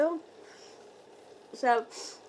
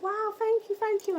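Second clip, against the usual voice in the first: higher, gushing thank-yous; 9 semitones higher than usual. Retold or imitated. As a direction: gush like a flattered star. DJ voiced gushing.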